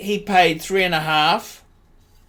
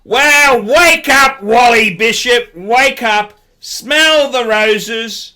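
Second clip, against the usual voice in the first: calling out; 2 semitones higher, 4 dB louder, slower than usual. Real, not acted. Calling out the shop owner.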